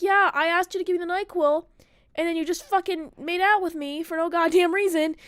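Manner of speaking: acted-out fed-up girlfriend; exasperated retelling. Retold exasperated complaint to boyfriend.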